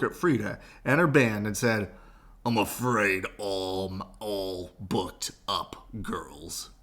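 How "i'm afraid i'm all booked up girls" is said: theater manager. Acted. Theater manager turning them away.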